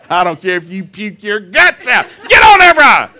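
building to a high loud shout; mock yell. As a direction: bark the order like a pushy dad. Father ordering kids onto rides.

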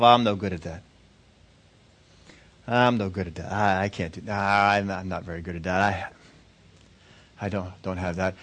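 low, subdued self-doubt; mildly defeated, talking yourself down; self-deprecating. Acted. Person telling themselves they lack talent, self-deprecating. Voices negative self-talk.

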